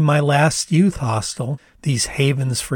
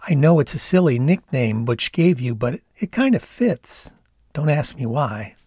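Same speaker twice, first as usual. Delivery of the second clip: put-on Canadian accent. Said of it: "she using Butch's nickname".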